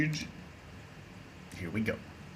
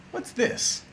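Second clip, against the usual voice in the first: normal talking voice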